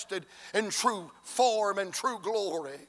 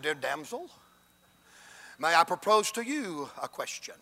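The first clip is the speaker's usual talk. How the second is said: mock educated gentleman; 3 semitones lower, 3 dB quieter than usual. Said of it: "break out my education".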